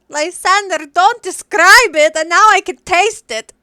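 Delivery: loud, high disgusted protest. Real, not acted. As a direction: recoil and complain loudly. Player disgusted by smell.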